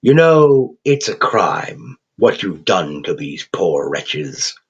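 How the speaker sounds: put-on slow, crooning English accent, gleefully cheerful; a cheerful English creature savouring every word. Raven creature chiding the thug in a cheerful English accent. Quoth's held voice.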